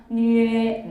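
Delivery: 뉴에 said loud and clear, gliding to 에; model syllable. Shown as a demonstration. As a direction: call out 뉴에 for the class to copy. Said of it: "뉴에 이렇게". (크게 또렷한 뉴에 시범)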